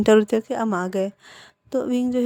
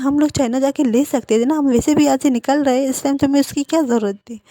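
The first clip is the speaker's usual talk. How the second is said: loud fast telling-off, pitch raised; angry scolding; 3 semitones higher, 6 dB louder than usual. Acted. Mother scolding son for needless late shopping, loud angry voice. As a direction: let the anger spill out fast.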